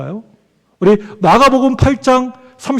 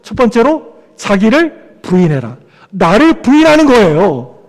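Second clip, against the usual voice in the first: ordinary delivery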